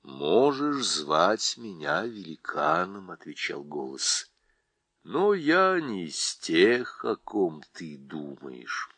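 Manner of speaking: low, slow and calm; deep calm voice. Acted. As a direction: speak like an ancient, gentle giant. Голос Льва, низко и медленно. (низкий спокойный голос)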